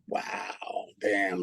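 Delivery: breathy whispered wow; hushed awe. Retold or imitated. Hit by the judge's words, whispered shock. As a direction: let it out as a stunned whisper.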